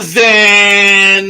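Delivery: loud, high scolding call; mock scolding yell. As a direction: tell him off by name. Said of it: "are you practicing scolding me".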